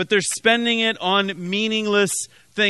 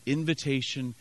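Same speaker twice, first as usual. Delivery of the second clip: low, soft pleading with the congregation; hushed appeal; 8 semitones lower, 9 dB quieter than usual. Real, not acted. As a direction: drop right down and let each phrase sink in.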